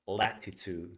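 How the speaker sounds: "latitude" with both T's crisply sounded as t. Shown as a demonstration. Teacher giving own pronunciation, British-style t sounds in "latitude". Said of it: "two T's in a more British way".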